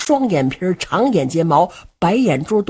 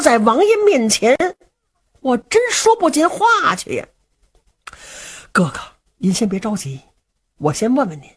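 put-on reluctant young Luo Cheng. Luo Cheng gently refuses his brother, reluctant. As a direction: back away from the task gently.

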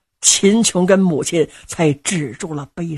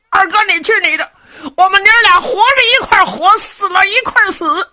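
put-on high, fast, childish voice of a simple young man; simple-minded lad; 12 semitones higher, 4 dB louder, faster than usual. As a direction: blurt it out like a guileless big kid. (傻小子尖声急促地劝娘)

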